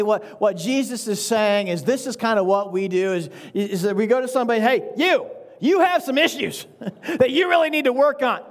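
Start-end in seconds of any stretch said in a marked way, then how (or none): 4.6-8.4 smug accuser. Acted. Acted accusing quote to somebody.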